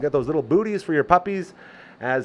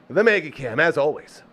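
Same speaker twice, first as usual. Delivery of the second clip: ordinary talk, nothing marked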